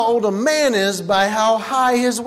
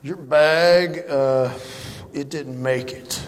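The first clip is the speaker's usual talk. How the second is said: hesitant worker; 7 semitones lower than usual. Retold or imitated. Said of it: "They said".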